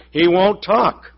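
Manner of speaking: slow, whiny complaint; complaining. Retold or imitated. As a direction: complain to the shopkeeper.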